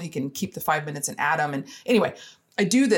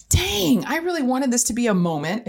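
disappointed sigh; 6 semitones higher than usual. Retold or imitated. Disappointed inner thought.

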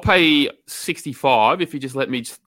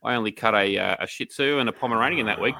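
a hint of a coy groomer, lower and softer; mock innocent groomer; 5 semitones lower, 4 dB quieter than usual. Host imitating the groomer dodging tax questions. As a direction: play innocent about the books. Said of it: "she can say".

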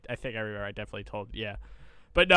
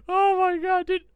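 much higher, louder oh my God; disbelieving squeal; 4 dB louder than usual. Real, not acted. Friend reacting to story.

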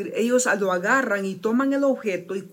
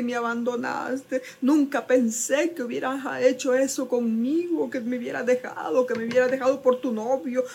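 self-pitying friend; 5 semitones higher than usual. Retold or imitated. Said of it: "esto es lástima".

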